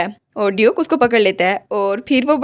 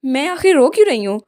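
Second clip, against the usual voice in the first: tearful puzzlement; 4 semitones higher than usual. Acted. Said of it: "उसके आंसू वो उसके हाथों पे गिर रहे थे".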